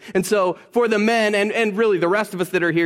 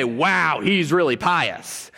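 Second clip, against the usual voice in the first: mock admiration; much slower than usual.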